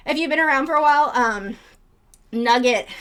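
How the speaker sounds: winded and a little rushed; breathless after chasing chickens; out of breath. Real, not acted. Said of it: "I'm out of breath now from chasing chickens".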